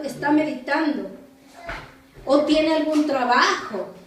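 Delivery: emphatic taunt with stretched key words; mock them in a declaimed reading; ironic mockery. Elijah taunting Baal's prophets about their sleeping god, ironic mockery. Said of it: "Elías se burlaba de ellos, diciendo".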